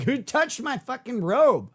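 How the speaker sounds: high, drawn-out indignant outburst; mock annoyed. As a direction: act out an irritated demand, slowly. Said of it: "him being annoyed".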